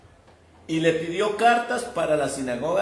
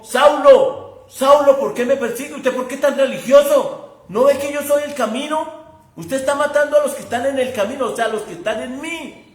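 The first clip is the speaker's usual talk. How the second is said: loud commanding call, higher; voice of authority; 5 semitones higher, 5 dB louder than usual. Retold or imitated. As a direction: thunder it out with authority. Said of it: "le habló con autoridad".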